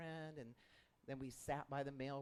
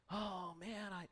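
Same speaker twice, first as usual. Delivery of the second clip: put-on grieving young man; 7 semitones higher, 6 dB louder than usual. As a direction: voice the man choking on news of his dead father. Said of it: "more tears would fall out".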